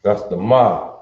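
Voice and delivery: "ma" drawn out and overdone on the vowel; exaggerated ma. Shown as a demonstration. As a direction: lean hard into the "ma". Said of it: "That's a little exaggerated".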